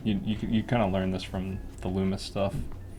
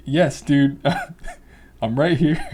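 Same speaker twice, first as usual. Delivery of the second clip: exasperated reply; 5 semitones higher, 8 dB louder than usual. Retold or imitated. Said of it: "I'm like".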